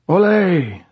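high, loud cheer for the singer; cheering shout. A narrator's reading. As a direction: cry out in applause.

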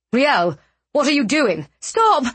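high, urgent cry to stop; alarmed shout. Acted.

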